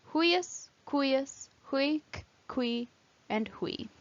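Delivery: each word from "huius" to "hui" said alone with one oo-ee glide; UI diphthong. Shown as a demonstration. Teacher listing the only such words, "huius" with gliding UI. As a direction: glide U into I in "huius", "cuius", "huic". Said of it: "U I as a diphthong".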